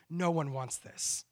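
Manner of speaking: slow, soft plea to God; slow pleading prayer. Retold or imitated. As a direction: draw each word out, begging quietly.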